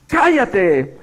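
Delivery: sharp yell of the crowd; crowd shouting shut up. Retold or imitated. Preacher retelling the crowd silencing Bartimaeus, shouting. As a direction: snap it like an annoyed crowd. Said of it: "le gritaban".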